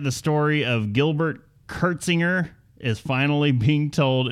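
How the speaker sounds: scripted story read with lively swooping emphasis; news read. Acted. Host reading the bourbon theft story to co-hosts, news read. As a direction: read it out like a podcast news segment.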